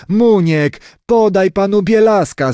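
high-pitched mild call; grandmother calling out. A narrator's reading. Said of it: "zawołała babka".

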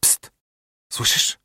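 hushed whisper, no voice; whispering while hiding. Acted. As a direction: whisper so nobody hears. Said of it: "Nagle Tomek szepnął".

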